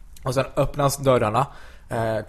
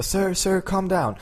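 imitated waitress; 8 semitones higher, much slower than usual. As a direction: pitch it up like someone calming a customer. Waitress pleading with shouting customer.

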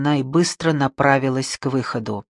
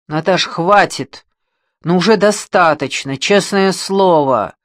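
exclaiming; 3 semitones higher, 6 dB louder than usual. Acted. Kirsanov begging Natasha to stop, loud exclamation. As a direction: raise the voice to make her stop. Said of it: "воскликнул Кирсанов".

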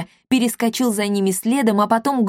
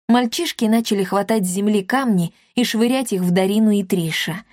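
plain reading voice

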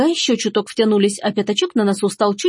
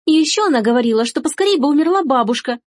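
higher-pitched tattling daughter, lightly voiced; holding forth; 6 semitones higher than usual. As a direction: carry on telling tales, pitched up. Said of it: "продолжала вещать Эжени". (вещает, как ябеда)

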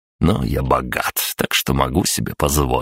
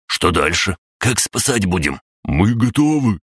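eager servants; 5 semitones higher than usual. Acted.

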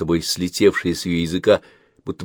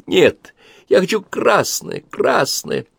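put-on high, slow whining girl; whiny child insisting; 12 semitones higher, much slower than usual. A narrator's reading. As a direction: dig in your heels like a six-year-old. Child insists on red dress.

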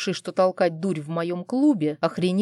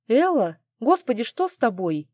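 alarmed cry; 5 semitones higher, 3 dB louder than usual. Acted. Sister-in-law finds her collapsed.

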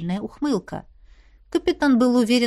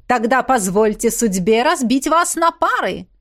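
raised, proclaiming voice; stage announcer; 3 semitones higher, 4 dB louder than usual. A narrator's reading. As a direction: proclaim it to the whole crowd. Host announces to the crowd. (торжественно объявляя толпе)

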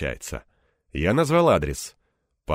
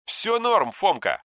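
higher, slyly drawn out; sly drawl; 12 semitones higher, slower than usual. A narrator's reading. Anton teasing his friend, slyly drawn out. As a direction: let it stretch with a sly grin. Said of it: "хитро протянул Бурцев".

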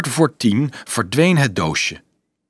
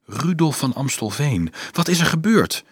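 warm voice; 4 semitones higher than usual. Acted. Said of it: "vroeg een warme stem".

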